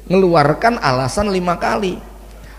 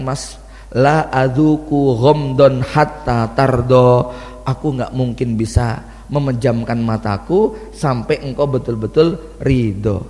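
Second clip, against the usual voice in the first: tender plea; 5 semitones lower than usual. Retold or imitated. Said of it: "dan mengatakan". (istri bersandar dan memohon lembut kepada suami, pelan)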